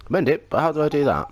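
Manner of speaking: put-on puzzled young boy. Oliver asks, puzzled.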